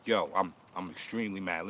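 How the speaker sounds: deadpan quiet mock fury; sarcastic fake anger. Mocking a viewer with quiet pretend anger. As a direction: claim rage with no heat. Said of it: "I'm like".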